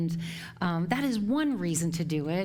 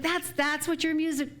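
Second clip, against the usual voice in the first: laughing quote; 8 semitones higher, slower than usual. Retold or imitated. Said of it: "I'm like".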